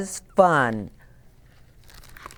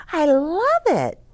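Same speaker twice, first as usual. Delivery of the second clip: Nellie's voice; 9 semitones higher, 3 dB louder than usual. A narrator's reading. Nellie answers about cake.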